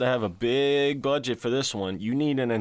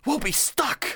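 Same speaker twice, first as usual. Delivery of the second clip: much higher, squeaky panic; panicked extra. Retold or imitated.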